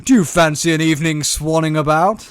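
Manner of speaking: badly faked upper-class accent. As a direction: attempt an upper-class English invitation. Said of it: "an upper class name".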